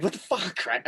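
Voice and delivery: mock surprise, pitched high; retold startled reaction. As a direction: replay the startled yelp at moderate volume. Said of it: "and he scared me".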